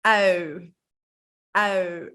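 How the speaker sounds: au with onion-eating mouth; Dutch ui. Shown as a demonstration. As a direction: make it look like eating an onion. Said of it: "like you're eating an onion".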